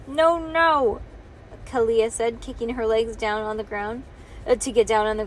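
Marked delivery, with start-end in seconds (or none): 0.1-1.0 put-on higher-pitched toddler refusal; toddler protest. A narrator's reading. Toddler kicking to get down, high protest.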